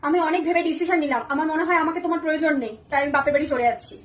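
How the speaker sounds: solemn hurt. Acted. Wife announcing she leaves for parents, acted solemn hurt. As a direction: deliver the decision low and wounded.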